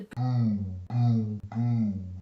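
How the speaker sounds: very low, loud, drawn-out booms; booming thuds. A narrator's reading. Narrator imitates man smashing the door, deep booming. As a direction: imitate heavy blows deep and slow. Voices the axe blows.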